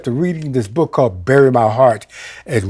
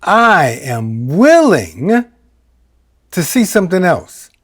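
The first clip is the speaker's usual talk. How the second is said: slow, reverent recital with long pauses; slow recitation; 2 semitones higher, much slower than usual. Shown as a demonstration. Quoting a line from the Course in Miracles, slow and reverent. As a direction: savour each word slowly. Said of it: "a line from the Course in Miracles".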